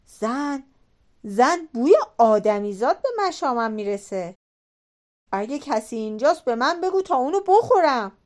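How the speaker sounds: loud, rising roar for his wife; shouting giant. Acted. Giant shouts to his wife that he smells a human, roaring. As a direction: bellow like a hungry giant sniffing. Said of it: "پهلوان بزرگ فریاد زد".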